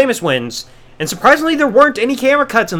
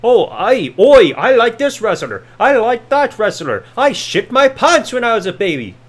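mock Irish accent. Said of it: "so generic shit".

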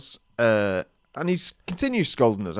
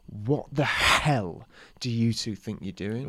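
slow, drawn-out mock telling-off; retold scolding; 3 dB quieter, slower than usual. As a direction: imitate an outraged swimming instructor, slowly. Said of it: "he starts scolding us".

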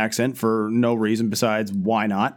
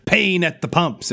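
slow, higher-pitched headline read; mock headline; 5 semitones higher than usual. Reading newspaper headlines from the show, slow mock-dramatic. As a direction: announce it like a spinning front page.

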